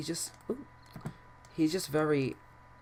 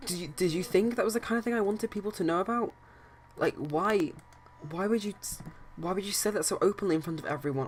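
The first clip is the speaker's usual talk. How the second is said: pitched-up hurt yelling at his friend; accusing a friend who betrayed him, raised and high; 5 semitones higher than usual. Acted. Brandon yells at Taylor for outing him, hurt and angry. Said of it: "and he's just yelling at him".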